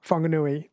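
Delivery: "Whanganui" with its WH pronounced like F; F sound starting "Whanganui". Shown as a demonstration. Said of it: "the W H is pronounced F".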